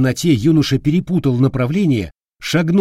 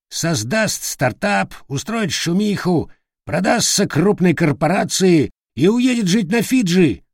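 slow, higher sneering bird voice; mocking parrot; 7 semitones higher than usual. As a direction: spell out the plan with a sneer. Parrot mocking Hinus's plans. (насмешливый медленный голос попугая)

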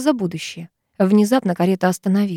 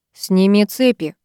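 hissing; slower than usual. Acted. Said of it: "прошипел".

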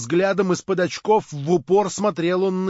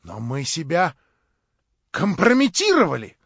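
several voices shouting; 3 semitones higher, 7 dB louder than usual. A narrator's reading. Compromised members accuse Stavrogin, shouting ever louder. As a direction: build to an indignant shout. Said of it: "закричало несколько голосов".

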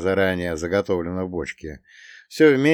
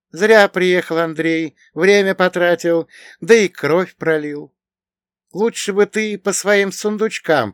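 put-on high, louder girlish voice, drawn-out words; young woman Vetlina, reproachful; 8 semitones higher, 5 dB louder than usual. A narrator's reading. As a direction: chide him slowly in a raised girl's pitch. (высокий девичий голос, с укором, протяжно)

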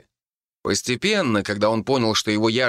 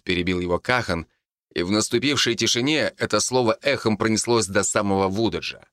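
usual speaking voice

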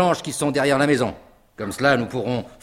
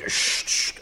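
whispered hush; 3 dB quieter than usual. Acted. Hushing the group.

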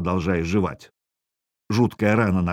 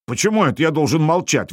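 higher-pitched indignant question; возмущение; 6 semitones higher than usual. A narrator's reading. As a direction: object as if unfairly silenced. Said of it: "возмутился Хакстейн Хакспьёт". (возмущённо)

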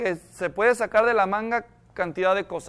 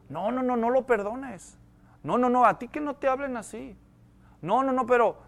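soft urging; 5 dB quieter than usual. Acted. Acts out Satan tempting the feelings.

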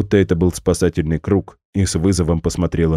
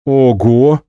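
loud, breathed-out wow; admiring gasp; 6 semitones higher, 7 dB louder than usual. Acted. Max gasps in delight at the gig idea. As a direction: let it out in delighted awe. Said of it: "восхищённо выдохнул Макс".

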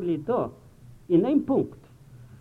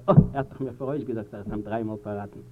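sinking realisation; 9 semitones lower than usual. Acted. Disciple recalls the prediction after the cock crows, low and sinking.

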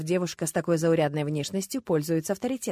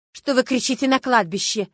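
put-on louder scolding from an old woman; scolding hiss; 4 semitones higher, 6 dB louder than usual. A narrator's reading. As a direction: tell them off sharply. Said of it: "зашипела на подруг старуха".

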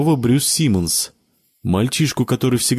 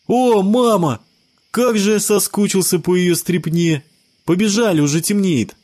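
put-on high boy's voice, eager; a boy rushing home for dinner, high; excited child; 9 semitones higher than usual. A narrator's reading. Sebastian urges friends to run home, high excited child voice.

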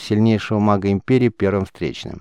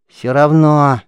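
stubborn insistence; 6 semitones higher, 6 dB louder, much slower than usual. A narrator's reading. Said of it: "не унимался мальчишка".

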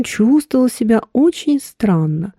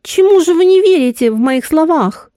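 higher, lost and unsure; bewildered; 6 semitones higher than usual. Acted. Woman asking him what he doesn't believe, bewildered. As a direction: ask as if she can't follow him. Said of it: "растерянно спросила она".

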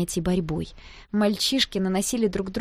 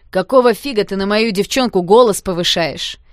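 loud, threatening yell; aggressive shout; 10 dB louder than usual. A narrator's reading. Stotsky defending his girl, loud aggressive yell. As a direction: square up to him.

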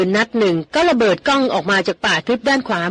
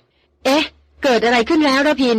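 higher, alarmed outburst at the sudden scream; startled cry; 5 semitones higher, slower than usual. A narrator's reading. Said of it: "ร้องออกมาระร่ำระลัก". (ร้องถามอย่างตกใจ เสียงสูงขึ้น)

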